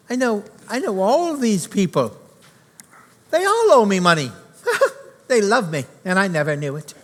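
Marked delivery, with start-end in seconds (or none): 3.3-5.8 laughing through the words in happy disbelief; delighted laugh. Acted. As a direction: let a joyful laugh break through. Scrooge delighted at debtors' joy.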